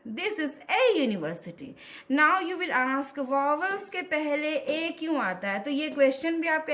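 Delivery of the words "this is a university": "a" said as a full "ay" before "university"; strong-form A. Shown as a demonstration. Teacher showing A before a vowel, "a" as ay. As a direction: give "a" its letter-name sound, ay. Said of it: "इस ए को हम बोलते हैं ए".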